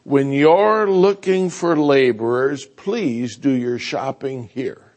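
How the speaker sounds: quoted plea. Retold or imitated. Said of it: "I love what Pastor Brennan says".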